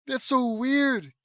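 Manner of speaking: high, loud, slowly stretched words; incredulous repeat. Real, not acted. Reader repeating reaction to odd line, incredulous exclamation.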